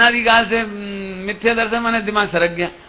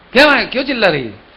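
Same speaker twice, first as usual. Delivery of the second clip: bossy husband; 5 dB louder than usual. Retold or imitated. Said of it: "पति माने commander".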